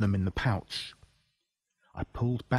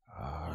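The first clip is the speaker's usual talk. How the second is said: zombie moan; 7 semitones lower, 14 dB quieter than usual. Acted. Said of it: "he moaned".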